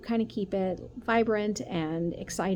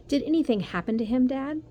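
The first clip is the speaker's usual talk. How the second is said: worried; 6 semitones higher, 5 dB louder than usual. Acted. Son worried about classmate.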